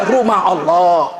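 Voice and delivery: low, slow sheepish answer with a laugh; sheepish reply. Retold or imitated. Sinner answers the angel sheepishly, low and slow. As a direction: mumble it like a caught sinner.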